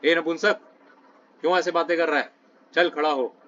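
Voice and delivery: a touch of a stern rebuke, lightly voiced; mild scolding. Krishna rebuking Arjun to stand and fight, mild mock scolding. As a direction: scold him as a teacher would, but only mildly. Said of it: "ऐसे बोल रहे हैं कृष्ण डांटते हुए".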